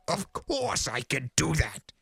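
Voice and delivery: high impatient snap. A narrator's reading. Discord to the clerk, high impatient snap. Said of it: "snapped Discord".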